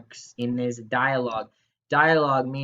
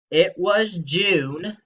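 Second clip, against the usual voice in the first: slow reading; 4 semitones higher, 4 dB louder, much slower than usual. Shown as a demonstration. Reading sentence dramatically.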